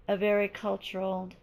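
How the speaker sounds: hoarse, voice giving out. Real, not acted. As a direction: push through a hoarse, failing voice. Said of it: "I'm losing my voice".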